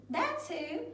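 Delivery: high, firm storybook insistence; hammed-up, full-voiced huff; indignant boast. A narrator's reading. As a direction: clinch the boast like an affronted king. Carlos insists before he tires.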